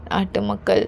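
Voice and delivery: weary scorn on a sigh; dismissive sigh. Acted. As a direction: brush it off with a tired sigh. Husband dismisses the people.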